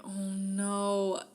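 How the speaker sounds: breathless, voiceless dismay; a hushed, horrified oh no; whispered oh no. Retold or imitated. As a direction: whisper it in dread. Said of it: "she's like".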